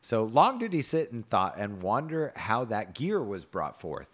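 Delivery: measured storybook reading; story narration. A narrator's reading. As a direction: read the tale aloud with old-fashioned cadence.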